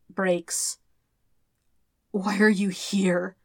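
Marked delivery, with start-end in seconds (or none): 2.1-3.4 slow, dazed and hurting question; slow, pained, bewildered plea; wretched gasp. Acted. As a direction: ask it as if reeling from pain. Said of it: "Zuko gasps wretchedly".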